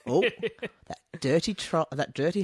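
high mock-shocked gasp; scandalized Victorian prude. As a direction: clutch pearls at an ankle.

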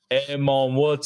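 imitating a heavy Jamaican accent; neighbor's Jamaican greeting, lightly imitated. Retelling the elderly neighbor's greeting, imitated Jamaican accent. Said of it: "like, a heavy Jamaican accent".

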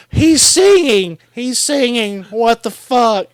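high-pitched incredulous yell; loud, high mock scream; retold scream. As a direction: re-enact screaming in disbelief, words stretched. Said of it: "And I fucking screamed".

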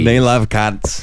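slow, drawn-out mock Australian accent; Jim Jeffrey. Mimicking an Australian comic for co-host, slow Aussie drawl. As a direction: stretch it out in put-on Aussie. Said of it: "Jim Jeffrey".

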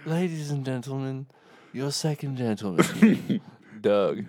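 announcer voice. Pretend. Mock announcer introduction.

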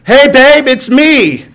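breezy call home to warn her; phone call to wife. Retold or imitated. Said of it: "the phone call sounds like this".

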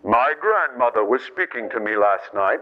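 low, put-on eerie report; mock séance believer. Preacher mimicking someone hearing the dead, mock eerie. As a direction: intone it low, as if haunted. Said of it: "voice of somebody who is dead".

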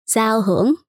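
Giao Hưởng in native Vietnamese tones; Vietnamese name. Shown as a demonstration. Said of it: "How do you say your name in Vietnamese?".

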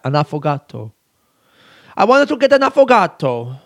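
affogato said carefully with a flourish; self-mimicking pronunciation. Podcaster mimicking how they kept ordering affogato, self-mocking flourish. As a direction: show off the word affogato, rounding off its last syllable. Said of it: "I kept saying it like that".

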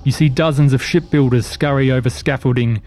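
measured game master narration; scene narration. Acted. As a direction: set the scene like a storyteller. GM sets the scene.

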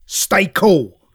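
slow, stern father voice; stern dad. Retold or imitated. Father warning his excited daughter, slow and stern. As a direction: lay it down slowly, very stern. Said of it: "he looks at her and he goes".

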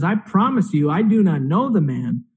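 mildly insistent retold denial; insistent oath. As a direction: retell a sworn denial at normal pace, lightly acted. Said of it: "Peter doubles down and he makes an oath".

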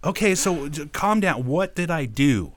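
slow down into a baffled question, retold; retold placating. Employee answering his raging boss, retold bewildered placating.

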